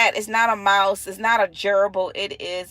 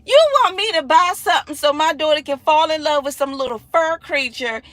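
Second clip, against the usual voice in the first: fast, louder exasperated rant; a mom ranting at her coworker about buying a doomed pet; indignant rant; 5 semitones higher, 5 dB louder, faster than usual. Retold or imitated. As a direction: tear into the idea.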